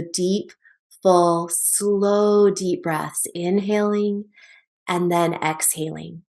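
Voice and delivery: soft, unhurried words with pauses between; calming breath cue. Shown as a demonstration. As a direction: ease through it like a slow breath. Models slow calming breathing.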